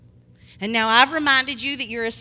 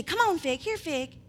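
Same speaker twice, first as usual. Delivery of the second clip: coaxing a dog; 4 semitones higher than usual. Acted. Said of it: "But then you say".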